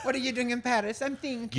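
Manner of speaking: high, airy French artist voice; lofty Parisian painter, lightly voiced; French accent. Same Parisian artist skit.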